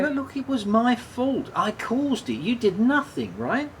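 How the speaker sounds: high, pressing, stammering start; urgent confession; anguished insistence. Acted. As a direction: force the blame onto yourself.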